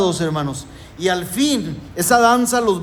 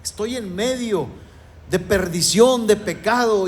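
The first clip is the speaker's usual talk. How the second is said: lament; 2 semitones higher than usual. Retold or imitated. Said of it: "levantó otro ay de dolor".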